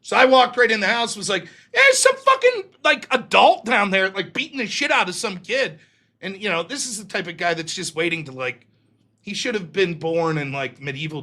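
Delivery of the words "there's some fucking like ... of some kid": urgent alarm. Retold or imitated. Teen running in to tell his uncle, high and urgent. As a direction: burst in raising the alarm.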